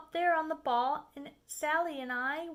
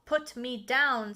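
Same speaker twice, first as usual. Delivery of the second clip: louder firm demand; fish protesting; 6 dB louder, slower than usual. Acted. The fish in the air telling the Cat, loud and firm. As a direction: insist hard on being let down. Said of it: "said the fish".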